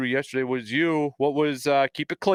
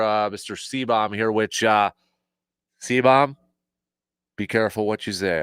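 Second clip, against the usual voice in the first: normal talking voice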